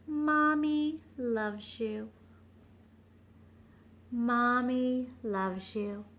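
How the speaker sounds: slow, loving murmur. Acted. Mother's tender words to son.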